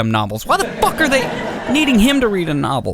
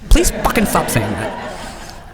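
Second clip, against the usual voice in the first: mock pleading; 6 semitones lower, much slower than usual. Begging her to stop.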